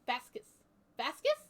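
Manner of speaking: "Vasquez" as "VAS-kuhs", then questioning; trying out pronunciation. Shown as a demonstration. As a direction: test "Vasquez" with a weak second vowel. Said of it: "Is that it?".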